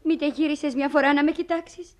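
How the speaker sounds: a mother begging her son not to leave; tearful goodbye to her son; tearful plea. Acted. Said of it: "και γιατί κλαις τώρα".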